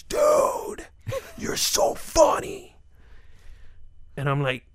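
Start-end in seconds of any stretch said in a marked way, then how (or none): 0.0-2.8 put-on breathy, high fan-boy gush, pitched way up; starstruck fan. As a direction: gush it like a thrilled fan spotting a star. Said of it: "and he goes".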